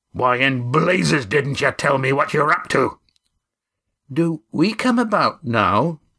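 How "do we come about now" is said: hopeful, higher and slower. Narrator reads Yan's question about coming about, hopeful. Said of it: "Yan asked, hopefully".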